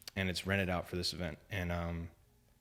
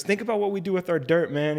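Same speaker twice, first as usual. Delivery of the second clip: higher, louder, hammed-up preacher voice; imitating the preacher; 10 semitones higher, 8 dB louder than usual. Retelling the evangelist's stadium sermon, in a higher, louder mock preacher voice. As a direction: play the stadium preacher, big and showy.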